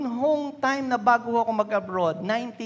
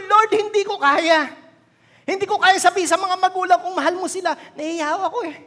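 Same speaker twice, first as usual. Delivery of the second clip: tearful preaching; 9 semitones higher, 7 dB louder than usual. Real, not acted. Tearful testimony, voice raised.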